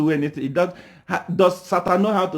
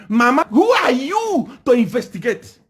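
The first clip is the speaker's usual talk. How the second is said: higher, pointed challenge to the official; demanding challenge; 4 semitones higher than usual. Shown as a demonstration. Opposition confronting the official, higher defiant challenge. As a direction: ask it like you mean to confront her. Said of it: "you are supposed to stand up and ask".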